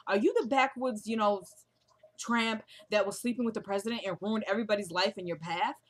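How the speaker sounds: imitating Valerie. Confronting the backwoods rival in front of Victor, lightly imitated accusation. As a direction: put on a touch of indignant accusation. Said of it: "let me imitate what they were saying".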